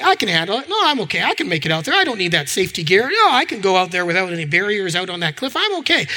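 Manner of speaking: breezy, acted self-assurance; casual voice of someone complacent; relaxed complacency. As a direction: wave off the worry, overconfident. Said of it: "complacency is relaxed, going".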